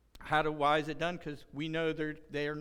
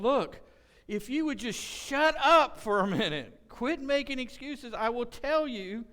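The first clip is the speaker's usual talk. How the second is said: loud, high, emphatic scolding in an imagined quote; exasperated God; 6 semitones higher, 7 dB louder than usual. Acted. God to people making excuses, exasperated loud command. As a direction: cut through the excuses, punching words forcefully. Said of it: "I envision God standing up here going".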